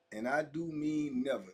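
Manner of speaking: never pressed hard; stress on never. Shown as a demonstration. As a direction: lean into the word never. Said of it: "emphasis on the word never".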